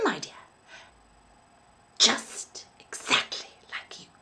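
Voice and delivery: put-on high, sugary old lady voice, softening at the end; a doting landlady, gushing then hushed; sweet old landlady. A narrator's reading. Landlady fawning over young Billy, sweet high voice.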